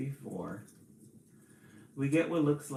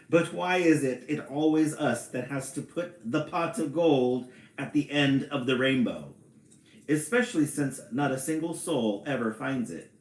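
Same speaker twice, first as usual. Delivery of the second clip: higher, louder leprechaun with an Irish lilt; attempted Irish accent; 4 semitones higher, 6 dB louder than usual. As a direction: complain in a playful Irish accent. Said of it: "I'm gonna try".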